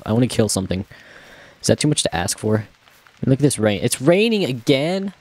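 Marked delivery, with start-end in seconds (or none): 3.8-5.1 surprised. Real, not acted. Groaning at rain in game.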